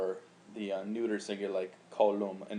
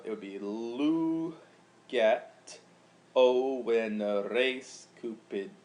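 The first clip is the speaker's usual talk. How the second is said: Latin split into syllables, each one beat; slow scansion; scanned syllables; much slower than usual. Shown as a demonstration. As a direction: read it out syllable by syllable. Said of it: "That would be the rhythm of the line".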